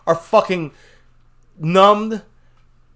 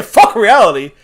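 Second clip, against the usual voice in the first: mock reckless fan; 3 semitones higher, 6 dB louder than usual. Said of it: "we say".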